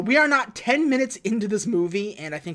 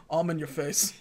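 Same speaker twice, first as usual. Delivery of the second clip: low Vin Diesel voice; 4 semitones lower, 5 dB quieter than usual. Retold or imitated. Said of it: "And Vin goes".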